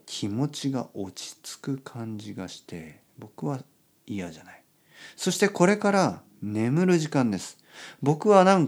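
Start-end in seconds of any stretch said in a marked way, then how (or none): 0.0-4.6 pillow talk. Real, not acted. Bedtime talk, rain.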